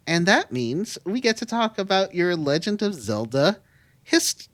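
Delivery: interrupted by a hiccup. Real, not acted. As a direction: hiccup cutting off the word. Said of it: "sorry, I'm hiccuping".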